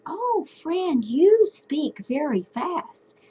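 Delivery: lightly teasing a friend; friendly chat to a friend. Shown as a demonstration. Teacher translating for students, slow light friend voice. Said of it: "So I said".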